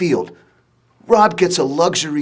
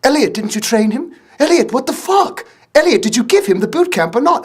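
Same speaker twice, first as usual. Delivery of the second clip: angry director; 8 semitones higher than usual. Retold or imitated. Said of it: "He's like".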